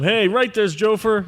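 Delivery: teasing impression of a bragging colleague, pitched high; high-voiced mock self-importance; mock boasting. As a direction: mimic him in a high, playful voice. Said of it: "I'm just teasing".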